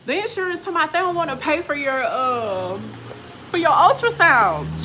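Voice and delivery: high, annoyed doctor rant; mild angry doctor. Retold or imitated. Doctor complaining to her patient about insurance, high irritated rant.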